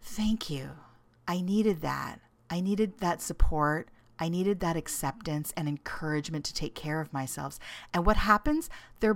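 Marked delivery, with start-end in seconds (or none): 0.0-7.6 hushed thankful relief; grateful relief. Retold or imitated. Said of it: "the tired person then is like".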